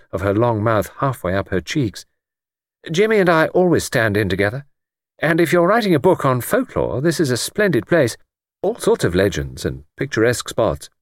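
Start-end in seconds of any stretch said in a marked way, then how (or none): 2.9-10.9 a hint of a young woman, higher and brighter; lightly voiced Bridget. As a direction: voice the hostess lightly, a little higher.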